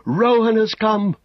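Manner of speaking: high, loud, slow-drawn shout; rallying cry. A narrator's reading. Men rising from despair cry to one another, shouting. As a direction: cry the news out, high and long. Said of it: "crying one to another".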